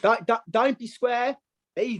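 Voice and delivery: put-on wobbly London accent, slow start. Boxer's catchphrase sign-off in attempted London accent. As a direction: put on London, sliding toward Australian. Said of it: "You want my London accent".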